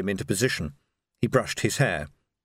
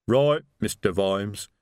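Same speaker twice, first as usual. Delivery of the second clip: slow, rumbling troll voice, timbre unlike the narrator; a slow, heavy troll reporting to his boss; troll rumble; 4 semitones lower, slower than usual. Acted. Troll Detritus answers his boss.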